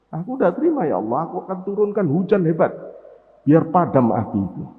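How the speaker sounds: fast, urgent cry to God; sky screaming. Acted. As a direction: rush the plea out. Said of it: "Langit pun jerit".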